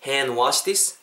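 "Hand wash this" with silent d, rising end; repeat-after-me model. Shown as a demonstration. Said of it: "한 번 더".

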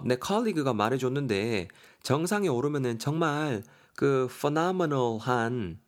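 mildly pushy coaxing; goading hiking companion. Acted. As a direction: lightly chide a lagging friend up the mountain. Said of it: "요렇게 지금 또 다그치고 있습니다".

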